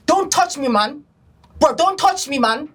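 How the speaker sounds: rude son. Retold or imitated. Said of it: "This is a son talking to their dad".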